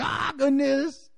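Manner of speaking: a slow, high, drawn-out sigh of wonder; hushed amazement at heaven; awestruck. Pretend. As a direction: breathe it out, overwhelmed by glory. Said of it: "You're gonna be like".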